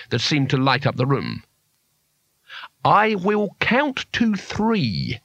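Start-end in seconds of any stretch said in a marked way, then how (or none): 2.8-5.2 friendly, slow and high; sweetly friendly threat. A narrator's reading. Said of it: "in a friendly tone of voice".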